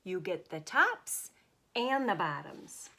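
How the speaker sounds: high call to wake Bear. Acted. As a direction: sing it out to a sleeper. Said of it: "Hare called out".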